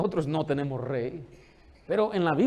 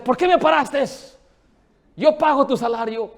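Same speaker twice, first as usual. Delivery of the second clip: indignant retort, higher and louder; defiant shout; 7 semitones higher, 7 dB louder than usual. Retold or imitated. Citizen stopped by officer, indignant shout. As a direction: challenge the officer rudely. Man defying police officer.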